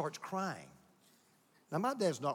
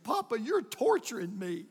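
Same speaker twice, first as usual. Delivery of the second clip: put-on higher, drawn-out complaint of a child; mock pleading; 5 semitones higher, slower than usual. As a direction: plead like a put-upon kid, hammed-up. Retold crying boy pleads with grandfather.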